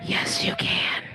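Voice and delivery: very high, slow squeal; falsetto encouragement. Pretend. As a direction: squeak it out like a tiny cheering voice.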